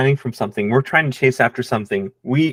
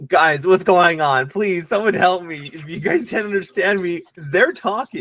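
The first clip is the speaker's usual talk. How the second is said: pleading high voice; 3 semitones higher than usual. Acted. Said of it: "my actual words are just like".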